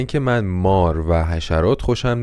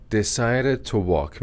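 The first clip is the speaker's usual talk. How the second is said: slow model phrase; 4 dB quieter, slower than usual. Shown as a demonstration. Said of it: "دو تا وربه".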